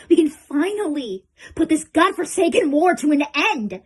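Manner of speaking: rally weary soldiers with force; rousing rally. Acted. Commander urging troops to end the war, loud rousing voice.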